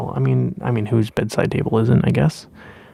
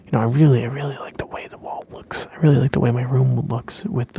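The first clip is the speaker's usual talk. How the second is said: whispering. Acted. ASMR whisper chat.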